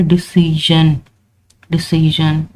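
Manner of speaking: डिसीजन said with a clear sh-like sound in the middle, di-SEE-zhun; demo pronunciation. Shown as a demonstration. Teacher modelling डिसीजन for students, zh sound. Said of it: "एस आई ओ एन को हमने क्या पढ़ना है".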